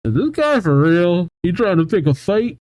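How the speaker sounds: lightly voiced cheerleaders, scoffing; incredulous cheerleaders. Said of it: "giving each other these looks like".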